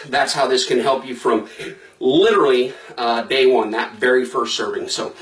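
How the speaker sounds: talking while out of breath; breathless, rushing through it. Real, not acted. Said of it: "sorry if I'm out of breath rushing through this".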